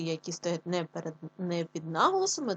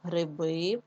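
slow гриби, last и drawn out; end-stressed гриби, shown to pupils; stress on final И. Shown as a demonstration. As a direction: stretch the stressed ending of гриби. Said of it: "падає на и".

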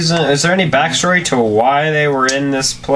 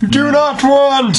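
high and slow, a mock wail of refusal; shrill high cry; 11 semitones higher, slower than usual. Real, not acted. Friend reacting to the story with a high drawn-out wail. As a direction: draw out a squealing protest.

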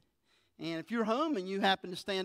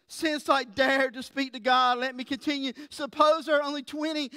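Abraham bargaining with God, pitched higher and louder; pleading Abraham; 5 semitones higher, 4 dB louder than usual. Acted. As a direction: press God humbly but urgently.

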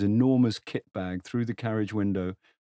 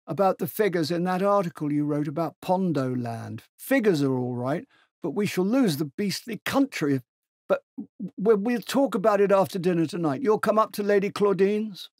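put-on higher, hearty voice of an old general; 9 semitones higher, 4 dB louder than usual. Old General hails Tegens across the platform, hearty and high. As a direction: boom out a jovial old soldier's greeting. General talks politics to McMaster.

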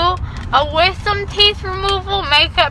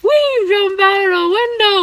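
Baymax quote; 5 semitones higher than usual. Pretend. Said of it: "Baymax quotes".

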